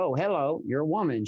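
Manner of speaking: light mock double take; mildly shocked. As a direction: act out a touch of surprise on finding who it is. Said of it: "I'm super shocked at first".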